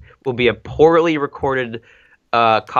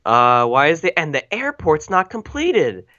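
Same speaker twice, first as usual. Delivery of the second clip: high slow whine; whiny complaint; 5 semitones higher, slower than usual. Retold or imitated. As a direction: complain like a spoiled engine. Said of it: "they're like".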